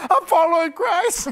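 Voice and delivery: high, loud proud answer through laughter; laughing declaration. Retold or imitated. Answering the mockers, loud laughing declaration. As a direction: shout it out laughing. His laughing reply to mocking folks.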